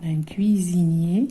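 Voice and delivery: whispered word. Shown as a demonstration. Teacher repeats word whispered.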